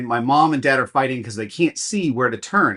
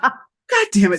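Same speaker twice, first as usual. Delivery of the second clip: high, loud fed-up curse; exasperated curse; 11 semitones higher, 5 dB louder, slower than usual. Retold or imitated. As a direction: spit it out in disgust. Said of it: "he's like".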